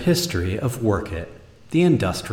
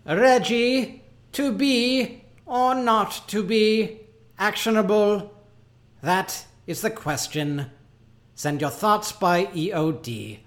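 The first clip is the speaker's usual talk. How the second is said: hammy stage actor; 8 semitones higher than usual. Acted. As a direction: declaim like Hamlet on stage. Hamlet parody memo.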